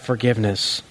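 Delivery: a sudden hush to land the point; whisper. Real, not acted. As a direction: drop to a hushed whisper. Quiet emphasis on key word.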